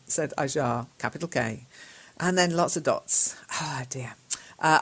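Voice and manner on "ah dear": whispered sigh of despair. Real, not acted. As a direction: breathe it out in dismay. Sighing at the student's dots.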